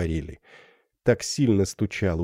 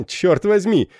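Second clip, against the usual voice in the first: laughing exclamation; 11 semitones higher, 5 dB louder than usual. Acted. Captain laughs off her fear.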